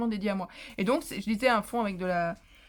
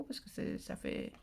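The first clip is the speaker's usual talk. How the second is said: à mi-voix; 10 dB quieter, slower than usual. Real, not acted.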